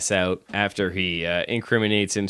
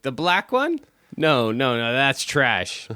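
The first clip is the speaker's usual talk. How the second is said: imitating her; 5 semitones higher than usual. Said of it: "And she's like".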